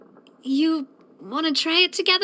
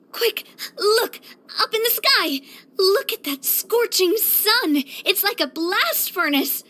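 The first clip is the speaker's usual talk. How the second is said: gasp, then higher, urgent exclamations; urgent excitement; 4 semitones higher than usual. Acted. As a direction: call out excitedly about the blazing sky. Gasps and points at scorching sun.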